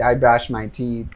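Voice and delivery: each word slow and separate; slow model sentence. Shown as a demonstration. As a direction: spell it out slowly for learners. Teacher models answer.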